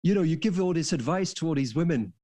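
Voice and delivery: put-on weak northern English accent; a faint hint of a northern English boxer. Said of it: "it is sort of northern accent, which I, I am terrible at".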